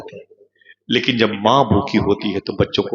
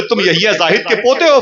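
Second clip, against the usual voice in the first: high, excited questions one after another; a stranger's rising, excited questions; eager questioning; 10 semitones higher, 4 dB louder than usual. Acted. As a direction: ask it like you can hardly believe it.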